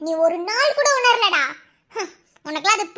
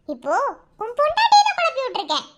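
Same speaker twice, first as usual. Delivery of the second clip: gloating; 4 semitones higher than usual. Acted. Villain boasting to captive husband.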